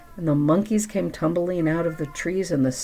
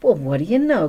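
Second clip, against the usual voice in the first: louder amazed exclamation; cried out; 5 dB louder, faster than usual. Acted. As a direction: call it out in wonder. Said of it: "cried the elephant".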